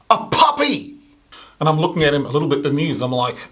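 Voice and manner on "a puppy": triumphant reveal. Acted. Friend reveals his big answer.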